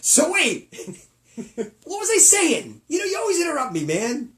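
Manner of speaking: high laughing talk. Real, not acted. Laughing fit mid-show.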